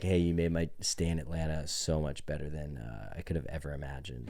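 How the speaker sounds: soft, low, genuine gratitude; sincere and hushed, imitating his own note; heartfelt thank you. Guest's note thanking hotel bar staff, heartfelt. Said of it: "this very heartfelt, like, genuine thank you".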